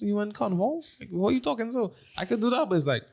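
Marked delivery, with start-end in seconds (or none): 0.0-1.9 posh proper-English voice, pitched well up and questioning; teasing put-on proper English accent; mock proper English. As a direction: play the snooty listener in proper English. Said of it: "I could proper English for you".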